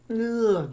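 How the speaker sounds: disgusted ugh. Real, not acted. Teacher reacting to the wrong accent, disgusted ugh. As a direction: recoil with an ugh.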